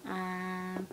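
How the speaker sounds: talking on a lungful of helium. Real, not acted. Vlogger testing helium on herself for viewers, helium voice. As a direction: play with the helium-changed voice, amused. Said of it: "I wanna see if my voice sounds funny".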